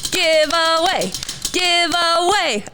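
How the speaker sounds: slow, drawn-out Minnesota vowels; Minnesota accent. Retold or imitated. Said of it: "Minnesota movie quote".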